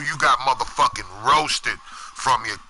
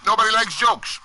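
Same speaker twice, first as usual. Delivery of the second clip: emphatic repeat; 8 semitones higher than usual. Real, not acted. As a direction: repeat "Nobody likes jokes" much higher, hitting "likes". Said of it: "Now nobody likes jokes".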